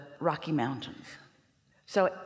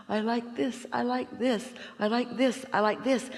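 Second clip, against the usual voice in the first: higher, quick repetitions gathering momentum; building delight; 5 semitones higher than usual. Acted. Speaker acting out momentum toward ecstasy, building delight. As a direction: let the delight build with each repeat. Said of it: "soon there is a crescendo".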